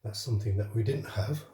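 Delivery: breathless after climbing stairs; out of breath, catching air between phrases. Real, not acted. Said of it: "a bit out of breath there".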